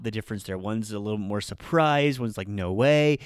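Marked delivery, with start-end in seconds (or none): 2.5-3.2 loud surprise. Shown as a demonstration. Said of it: "a little bit more, you know, loud".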